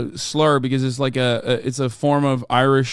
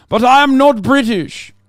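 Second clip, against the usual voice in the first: loud insistence; 8 semitones higher, 5 dB louder than usual. Real, not acted. Insisting against chat.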